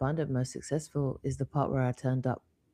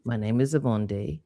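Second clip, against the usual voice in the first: put-on French accent; 2 semitones lower than usual. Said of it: "imagine a thick French accent saying".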